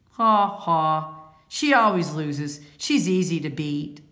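loud jeering laugh into a brag; mocking winner crowing over the loser; gloating. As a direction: rub the win in her face, loudly. Bad sport gloating after winning.

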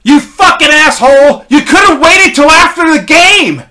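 furious full-volume yell, high and loud; Steve Durazo. Retold or imitated. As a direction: yell it out, imitating an outraged teammate. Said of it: "Steve Durazo yells out".

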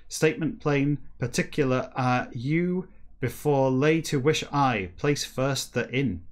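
slow, halting read of scrambled words; careful reading of a book passage; reading aloud backwards. Acted. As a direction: pick through the reversed sentence word by word. Reads Moby Dick text backwards.

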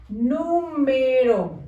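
"Número" slow but joined up as one word; "Número" drawn out without breaks; whole word slowly. Shown as a demonstration. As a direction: read back "Número" whole, gently stretched. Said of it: "escribimos número".

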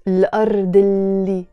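الأرض joined onto اللي with no gap; with liaison. Shown as a demonstration. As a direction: glide from الأرض straight into اللي. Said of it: "You see how you pronounce it?".

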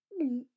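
short loud gulp sound; a nervous little gulp noise; audible gulp. Acted. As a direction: gulp aloud. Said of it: "I did a gulp".

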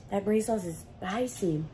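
hiccups while talking; hiccuping. Real, not acted. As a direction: talk through hiccups. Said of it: "I'm about to hiccup".

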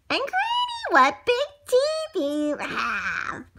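put-on high, slow wide-eyed girl; high amazed girl. Girl staring at granny's eyes, high and amazed. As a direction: marvel up high like a small girl.

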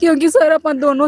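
crying while appealing for help; real crying. Real, not acted. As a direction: explain through sobs. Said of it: "ਚੱਲ ਤੂੰ ਰੋ ਨਾ".

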